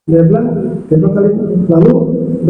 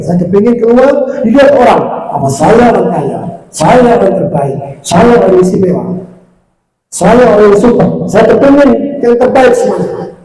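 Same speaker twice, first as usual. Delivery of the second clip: arrogant rich man; 3 semitones higher than usual. Retold or imitated. Rich sinner boasting to servant.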